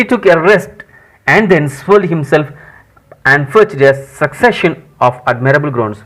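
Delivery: slow, deliberate English reading; story read-aloud. Acted. Teacher reads Tom's groaning scene to students, slow read-aloud. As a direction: read it out word by word for learners.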